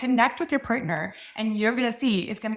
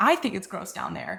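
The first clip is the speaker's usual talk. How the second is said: "I" stressed as the point of contrast. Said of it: "If you think it's gross down there".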